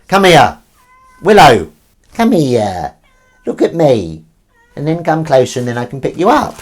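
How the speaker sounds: loud, high coaxing; calling a pet. Real, not acted. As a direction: urge the cat to come closer. Calling the cat to come.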